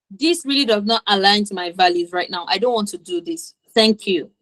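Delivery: calm, composed no; confident refusal. Shown as a demonstration. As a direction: decline firmly and politely in a level voice. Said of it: "say no and say it confidently".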